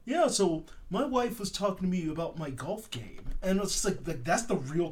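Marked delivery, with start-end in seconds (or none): 0.1-3.2 imitated bland small talk; milquetoast. Dentist chatting to his assistant mid-procedure, milquetoast. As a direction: make dull shop chatter. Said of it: "milquetoast kind of conversations".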